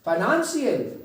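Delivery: फाइनेंशियल with NAN stressed; फाइनेंशियल said fi-NAN-shial; stress on second syllable. Shown as a demonstration. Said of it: "like this".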